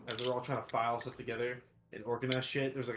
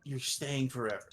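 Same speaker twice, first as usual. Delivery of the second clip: stern warning to clerks. Acted. Magistrate threatens clerks.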